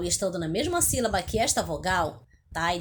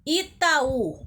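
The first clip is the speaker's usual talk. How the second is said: Itaú with the final Ú split from the A and raised in pitch; stressed, separated U; 4 semitones higher, 3 dB louder than usual. Shown as a demonstration. Teacher shows pupils the hiatus, Itaú with a higher, separate Ú. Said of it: "o U está separado do A".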